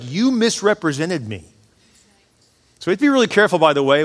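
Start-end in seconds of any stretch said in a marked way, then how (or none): 0.0-1.4 mildly indignant, slowed for emphasis; mad God. Retold or imitated. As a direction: retell a reproach, spacing the words out. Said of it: "he's mad at them".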